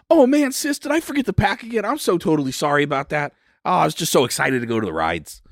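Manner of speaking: high, fast, gushing little sister voice; excited kid sister. Acted. Sister apologizing to sibling, high fast gushing voice.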